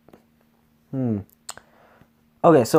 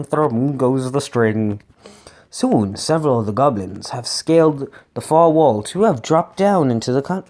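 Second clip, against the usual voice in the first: animated read-aloud storytelling; expressive story reading; gamebook narration. A narrator's reading. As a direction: read the adventure with lightly acted dialogue.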